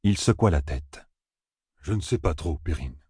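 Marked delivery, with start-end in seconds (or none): 1.8-3.0 soft, doubtful reply; hesitant. Acted. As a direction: trail off softly in doubt. Jack hesitates, shaking his head.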